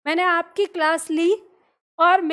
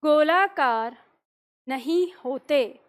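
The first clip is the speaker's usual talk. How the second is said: slow dictation; slower than usual. Shown as a demonstration. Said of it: "लिखिए".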